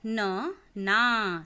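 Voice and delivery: पुल drawn out slowly and loud, each sound clear; slow syllabic reading. Shown as a demonstration. Teacher reads पुल slowly, loud and stretched. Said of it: "देखिए कि मैं किस तरीके से पढ़ रही हूँ".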